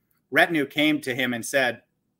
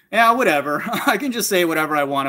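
mocking whatever; 5 semitones higher, 5 dB louder than usual. Mocking a careless believer.

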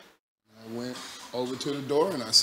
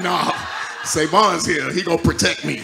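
dog's voice; 2 semitones higher, 10 dB louder than usual. Retold or imitated. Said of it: "she'll come right out of that bed like".

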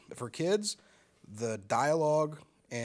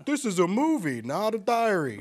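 mock condescending tagline; 6 semitones higher, 6 dB louder than usual.

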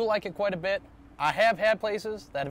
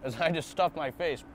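chewing while talking; talking between bites of sushi; mouth full. Real, not acted. Seen 0: Bit sushi at -3s; mouth looks closed, working during words.

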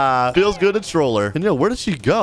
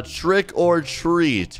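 slow; 3 semitones higher, much slower than usual. Retold or imitated.

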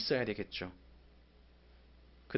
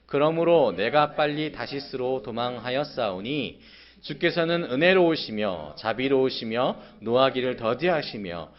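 resentful reading; 3 dB louder than usual. Acted. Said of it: "내가 요나가 된 것처럼 한번 읽어보겠습니다".

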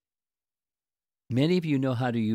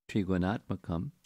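measured reading aloud of a translation; scripture reading; 3 dB louder than usual. Acted. Teacher giving listeners the verse's meaning, measured reading. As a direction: read it out with pauses between phrases.

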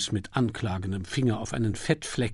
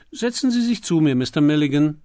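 higher, louder gushing dowager; gracious old duchess; 5 semitones higher, 9 dB louder than usual. Acted. The Duchess invites Milligan to sit beside her, gushing. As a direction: beam and draw him onto the sofa.

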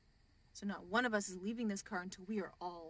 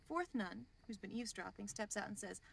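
usual speaking voice

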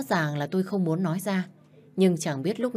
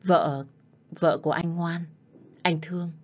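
gentle. Acted. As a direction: comfort her gently. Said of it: "rồi nhẹ nhàng nói tiếp với tôi".

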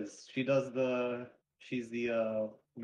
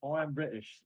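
put-on pitched-up token British accent; deliberately feeble British impression; fake British accent; 4 semitones higher than usual. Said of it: "I'm just gonna drop the accent".

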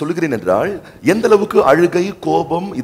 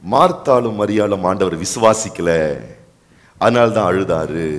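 pat explanation; 7 semitones lower, slower than usual. Retold or imitated. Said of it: "உடனே சொல்வோம்".

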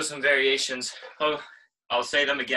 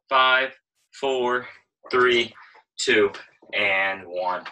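loud countdown; 5 dB louder, much slower than usual. Real, not acted. Calling out countdown.

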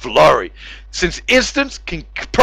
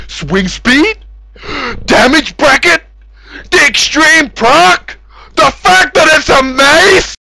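slow, high, rising disbelief; hammed-up disbelief; mock incredulous; 6 semitones higher, slower than usual. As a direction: act baffled at each option.

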